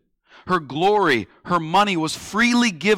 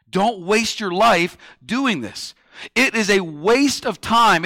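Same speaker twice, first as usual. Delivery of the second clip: insistent reproach, building in force; critical admonishing; 2 semitones higher than usual. Acted. Critics warning someone devoted to Jesus, insistent admonishing. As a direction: hammer each objection home like a critic. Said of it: "the criticism that many people will give you".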